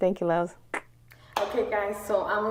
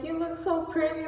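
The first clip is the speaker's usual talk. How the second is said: put-on little girl; 9 semitones higher than usual. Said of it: "very little cute girl".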